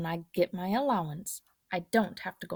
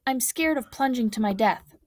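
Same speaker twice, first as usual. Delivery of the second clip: 1 scared; 5 semitones higher, 4 dB louder than usual. Acted. Boy dangling, scared.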